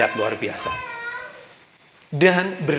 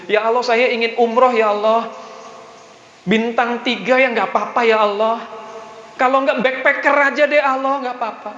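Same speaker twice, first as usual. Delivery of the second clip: mock modest plea, pitched up; half-hearted prayer; 8 semitones higher than usual. Preacher mimicking a timid believer bargaining with God, half-hearted prayer. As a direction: act out someone settling for less in prayer. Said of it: "doanya mintanya nanggung".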